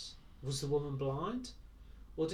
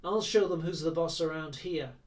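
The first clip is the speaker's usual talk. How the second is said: a louder, mock-tough movie gangster line; gangster movie hero; 2 semitones higher, 7 dB louder than usual. A narrator's reading. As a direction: play a borrowed tough-guy threat. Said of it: "borrowed from the hero of some American gangster movie".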